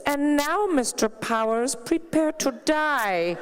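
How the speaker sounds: put-on mild Slovenian accent turned Bond villain, slow; a touch of Slovenian villain, drawn out on die; Melania's accent. Melania ending a speech as a villain, mild Slovenian accent. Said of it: "I want her to end like this".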